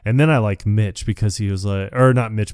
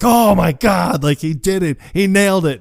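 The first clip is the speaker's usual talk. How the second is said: high, excited awe; imitated amazement; 9 semitones higher, 4 dB louder than usual. Crowd amazed at the stunt, high excited imitation. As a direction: gush like stunned onlookers.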